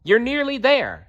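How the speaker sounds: high kestrel voice urging Mole up the hill; calling encouragement. A narrator's reading. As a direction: cheer the mole on from the sky. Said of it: "she called".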